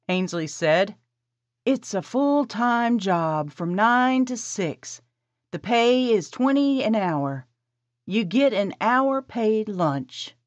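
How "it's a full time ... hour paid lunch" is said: higher, slow, businesslike; slow higher woman's voice. Acted. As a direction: lay out the job terms slowly. Esperanza voiced by narrator.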